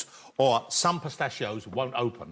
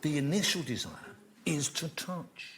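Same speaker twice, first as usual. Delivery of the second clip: mock gravitas; 5 dB quieter than usual. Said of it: "to give this some gravitas".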